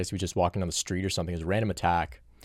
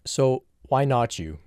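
slow, higher, pointed why not you; flippant answer; 5 semitones higher, 4 dB louder, slower than usual. Shown as a demonstration. Teacher answering a student's why me question, slow and pointed. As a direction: lean on why, drawn out and raised. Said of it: "a more flippant answer".

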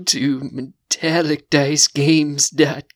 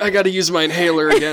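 laughing; much faster than usual. Real, not acted. Breathless after laughing fit.

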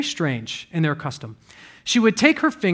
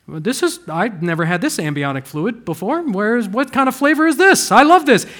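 lightly voiced baby, building to loud delight; newborn baby's reaction; 3 semitones higher, 4 dB louder than usual. Newborn tasting date paste, puzzled then delighted. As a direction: start puzzled, climb high and loud with glee. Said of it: "the baby would be like".

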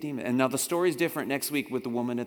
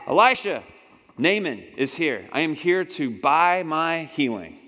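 loud demanding call; 2 semitones higher, 6 dB louder than usual. Acted. Naaman demanding at door.

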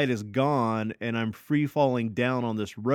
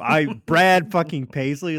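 disbelief; 4 semitones higher, 7 dB louder than usual. Retold or imitated. Retold shock at concert news.

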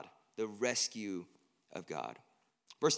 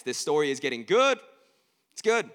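excited; 3 semitones higher, 10 dB louder than usual. Real, not acted. Preacher hyping the story.

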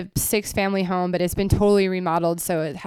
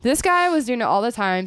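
ordinary talk, nothing marked

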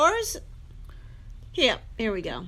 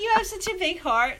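higher, quoted in a friend's voice; quoting a friend; 9 semitones higher than usual. Retold or imitated. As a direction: lift it up like quoting a bestie. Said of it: "as one of our besties said".

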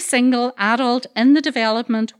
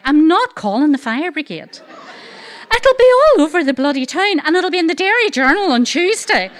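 louder, higher, worked-up protest; exasperated refusal; 3 semitones higher, 4 dB louder than usual. Retold or imitated. Refusing the fire brigade to the brother, in loud exasperation. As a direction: rant in half-laughing exasperation.

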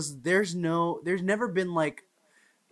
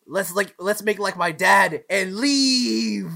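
quoting a friend; 6 semitones higher, 8 dB louder, slower than usual. Retold or imitated. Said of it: "and he goes".

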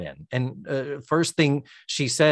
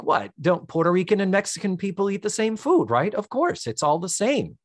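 lightly voiced clueless American, a bit higher; mock clueless guy; 5 semitones higher than usual. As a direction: play dumb and breezy. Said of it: "clueless American white guy".

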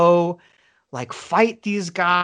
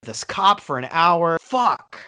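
higher, panicked cursing; freaking out; 4 semitones higher than usual. Retold or imitated. Dreamer freaking out at the bar after talking to cop. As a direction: spiral into panic about being sick. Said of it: "freaking out at the bar".

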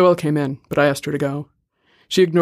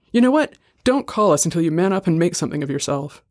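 sharp, raised final warning; angry; 2 semitones higher than usual. Acted. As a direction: slam the door on him. Leon cuts his brother off.

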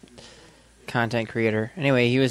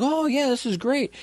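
mock delight; 13 semitones higher than usual. Acting delighted man loaded with bracelets.

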